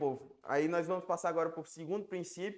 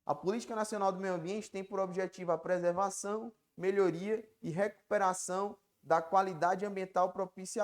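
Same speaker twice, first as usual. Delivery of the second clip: reading the law aloud; 4 dB louder than usual. Shown as a demonstration. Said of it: "ela vai dizer o seguinte".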